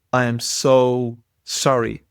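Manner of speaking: slow, sincere apology with weight on "so"; earnest apology. Retold or imitated. Driver apologizing to the cyclist he startled, slow and sincere. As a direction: draw out a heartfelt apology.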